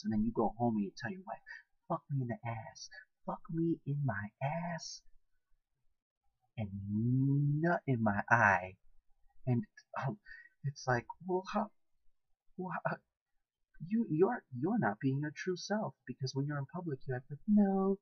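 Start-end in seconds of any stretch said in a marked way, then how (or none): 3.2-8.8 drawn-out mock pleading. Imitating churchgoer begging spouse at home, drawn-out mock plea. Same request repeated, drawn out. 17.5-18.0 higher, louder prudish "no"; mock refusal. Person acting prudish in public, emphatic mock refusal.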